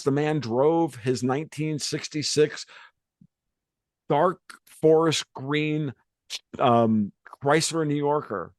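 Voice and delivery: drawn out, lingering over each word; slow savouring. Real, not acted. Telling the host about grandpa's old car, slow and savouring. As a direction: savour every word like a car you miss.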